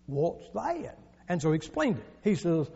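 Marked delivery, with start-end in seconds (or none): 0.1-1.0 soft Southern drawl; Southern gentleman. Acted. Southern gentleman questioning a Catholic coworker, soft Southern drawl. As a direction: ask it softly with drawled Southern vowels. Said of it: "Same guy, same guy".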